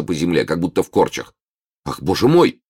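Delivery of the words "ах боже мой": восклицание. Acted. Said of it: "воскликнул сострадательный незнакомец".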